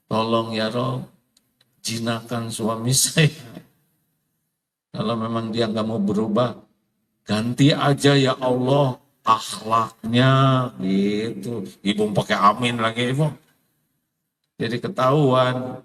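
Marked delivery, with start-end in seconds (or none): 0.0-11.6 a lightly voiced wife praying, low and half-sung at the start; mock wife's prayer. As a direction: pray like a fed-up wife, mostly in his own voice.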